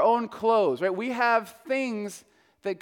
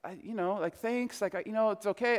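much softer, hesitant protest; embarrassed mumble; 8 dB quieter than usual. Retold or imitated. Pastor softly turning down the old man's money. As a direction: shyly wave off the offer. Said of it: "And I'm like".

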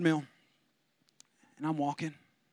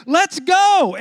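louder hyped call to race; fired-up challenge; 5 semitones higher, 6 dB louder, much slower than usual. Retold or imitated. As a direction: pump yourself up, loud and eager. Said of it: "I said".

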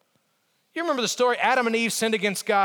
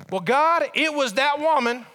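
higher-pitched acted excuse; blaming; 4 semitones higher than usual. Adam answering God about Eve, blaming. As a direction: shift the blame onto someone else. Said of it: "Adam blamed both the woman".

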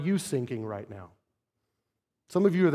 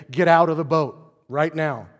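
louder, retold order; firm command; 5 dB louder than usual. Jesus orders Peter from the boat, firm command. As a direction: order him out with force. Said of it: "No, it's a command".

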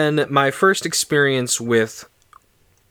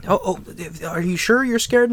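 gentle grandma; 5 semitones higher than usual. Retold or imitated. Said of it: "my grandma was like".

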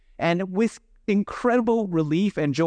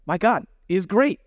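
excited praise; 4 semitones higher than usual. Retold or imitated. Counselors marveling to each other, excited praise. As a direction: say it like good news just landed. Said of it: "looking at each other like".

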